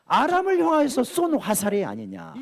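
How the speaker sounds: preacher imitating an angry prophet; retold angry rebuke. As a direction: scold the king in exasperated questions, mildly acted. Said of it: "엘리사가 막 화를 냅니다". (화내며 꾸짖는 선지자 흉내)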